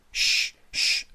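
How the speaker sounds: loud breathy hush; urgent shushing. A narrator's reading. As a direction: shush the screaming child fast. Hushing a screaming child.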